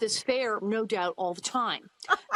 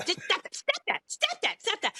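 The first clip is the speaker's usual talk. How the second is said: mock yell at kids; 9 semitones higher than usual. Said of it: "She yells at Nellie and Willie".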